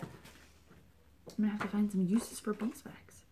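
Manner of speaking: slow breathy whisper; pondering whisper. Real, not acted. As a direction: muse aloud under your breath. Musing over beeswax.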